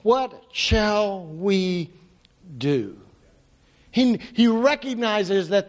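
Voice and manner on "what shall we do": slow, shaken and trailing away; scared question. Retold or imitated. Servant asking Elisha what to do, slow scared voice. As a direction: let the fear drain the words. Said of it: "scared, shaken, doesn't know what to do".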